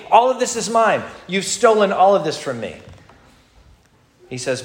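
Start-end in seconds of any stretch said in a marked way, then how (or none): 0.1-2.8 higher, aggrieved protest; lightly voiced greedy father-in-law protesting; mock outraged complaint. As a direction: whine that everything is yours. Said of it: "tearing out his hair".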